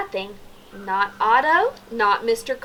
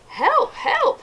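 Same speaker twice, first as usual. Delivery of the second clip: much higher, urgent "Help, help"; calling for help. A narrator's reading. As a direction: cry out for help, lightly. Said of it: "he said".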